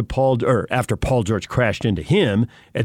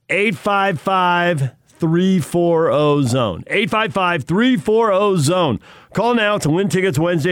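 radio contest promo. Acted. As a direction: sell the ticket giveaway like a radio spot. Host reads contest promo.

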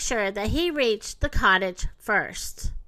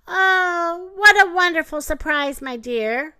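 gasp, then high pleased surprise; delighted grandma cry; 5 semitones higher, 4 dB louder than usual. A narrator's reading. Grandma welcoming her granddaughter at the door, delighted surprise. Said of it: "cried Little Red Riding Hood's grandma".

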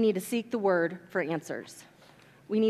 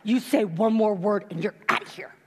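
whispered warning. Retold or imitated. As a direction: hiss it as a hushed warning. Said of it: "He says".

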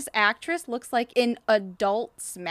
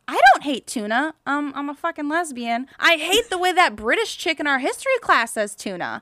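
mocking Sam; 5 semitones higher, 4 dB louder than usual. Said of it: "Sam's like".

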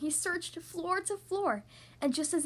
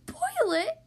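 high, loud shocked question; horrified gasp; 12 semitones higher, 5 dB louder than usual. A narrator's reading. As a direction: blurt it out aghast. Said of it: "gasped Horton".

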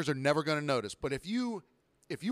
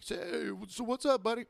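mock oblivious customer; 8 semitones higher than usual.

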